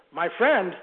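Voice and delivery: put-on an old preacher stunned at the word friend; exclaimed. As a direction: echo "My friend?" in disbelief, punching it out. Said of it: "exclaimed the old preacher".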